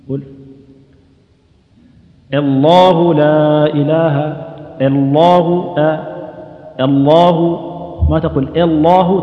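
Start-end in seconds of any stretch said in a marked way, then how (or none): 2.3-7.7 الله drawn out louder, thin "e"-like start and thick l; light hamza, heavy lam. Shown as a demonstration. Quran teacher chanting a model of الله, light hamza. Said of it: "ترقق الهمزة وتغلظ اللام". 8.6-9.2 الله opened on a clear "e"; over-thin the first vowel of الله into "ellahu"; overdone imala. Shown as a demonstration. Quran teacher warning against a mistake in الله, overdone imala. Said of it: "تخليها إمالة".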